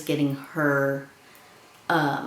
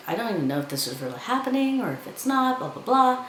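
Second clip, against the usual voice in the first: mock frantic; 8 semitones higher, faster than usual. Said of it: "when she's like".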